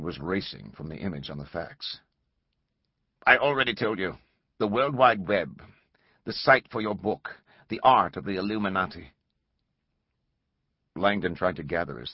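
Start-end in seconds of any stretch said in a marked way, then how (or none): 3.3-9.1 flat insistent caller; rigid mechanical voice. Acted. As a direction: repeat it stiffly, unmoved. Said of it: "The voice was rigid, mechanical".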